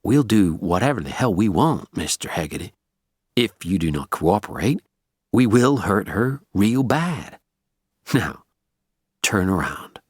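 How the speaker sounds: cold, controlled hired menace; menacing gunman. A narrator's reading. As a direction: lay down the threat deliberately, word by word.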